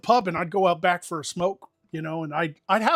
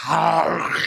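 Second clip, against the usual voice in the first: mimed retch after a bad bite; acted-out noise of disgust; disgusted gag noise; 5 dB louder than usual. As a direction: let out an exaggerated gagging "ahh". Mimes reaction to biting the burger.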